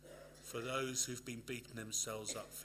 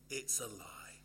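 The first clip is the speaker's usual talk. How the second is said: whisper. Shown as a demonstration. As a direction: drop to a confiding whisper. Repeated phrase, whispered.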